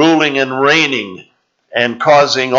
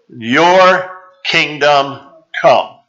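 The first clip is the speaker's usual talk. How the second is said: drawn out; much slower than usual. Shown as a demonstration. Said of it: "That's all I want you to think about".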